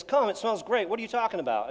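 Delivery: put-on a boy who can't believe dad objects; protesting kid. Son defending the trash shirt.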